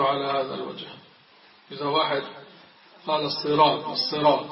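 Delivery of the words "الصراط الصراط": الصراط with a sound that is neither sin nor sad; wrong in-between sad. Retold or imitated. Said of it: "لا هو سين ولا هو صاد". (نطق الصاد بين السين والصاد)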